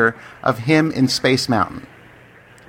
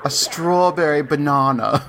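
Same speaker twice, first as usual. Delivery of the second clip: laughing; slower than usual. Real, not acted. Amused repeat of smoothie line.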